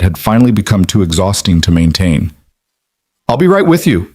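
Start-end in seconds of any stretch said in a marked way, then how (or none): 3.3-4.1 higher-pitched, light call across a room. A narrator's reading. Eli to the old man in the booth, calling out. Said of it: "Eli called out".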